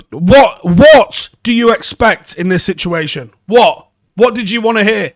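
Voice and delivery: loud, disbelieving what; incredulous outburst. Real, not acted. Fan demands what the journalist expected, loud and incredulous. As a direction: demand an answer, baffled and loud. Ranting at journalist over article.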